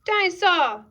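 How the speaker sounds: put-on high, loud toddler exclamation; joyful child's shout; delighted little George. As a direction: cry it out with childish glee. George delighted to have toy back.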